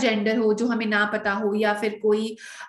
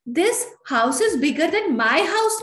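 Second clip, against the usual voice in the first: higher, slow, doubtful reading of the wrong sentence; raised, slowed, questioning mistaken example; wrong version; 6 semitones higher, much slower than usual. Shown as a demonstration. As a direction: say it slowly, higher, like an error to reject. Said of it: "नहीं".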